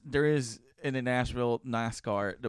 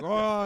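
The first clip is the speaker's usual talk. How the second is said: raised rampaging roar; mock charging bellow; imitated rhino roar; 7 semitones higher than usual. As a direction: roar like someone going off. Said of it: "everyone just turned into a rhino".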